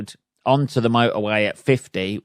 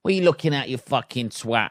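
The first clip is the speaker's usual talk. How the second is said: mock road rage; 2 semitones higher, faster than usual. Shown as a demonstration. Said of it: "That's it, isn't it?".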